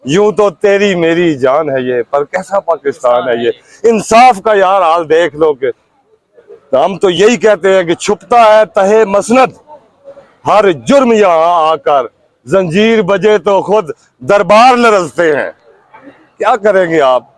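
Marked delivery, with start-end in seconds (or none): 0.1-3.5 measured, declaimed Urdu verse with falling line ends; rhythmic protest poetry; poem recitation. Acted. 7.9-15.5 poem recitation. Acted. Quotes couplets in recital style.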